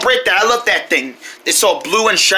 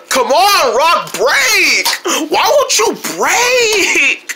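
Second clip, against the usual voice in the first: laughing; 8 semitones higher, much slower than usual. Real, not acted. Laughing at unbreakable rock.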